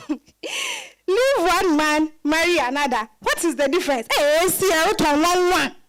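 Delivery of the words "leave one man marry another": mocking laugh. Grandmother mocking Esi's choice.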